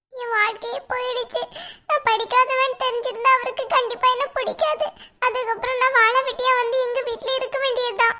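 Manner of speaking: acted sobbing lament; tearful despair. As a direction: voice breaking into sobs, despairing. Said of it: "எதுக்கு இப்ப நீ அழுகுற". (அழுகையோடு விரக்தியாக)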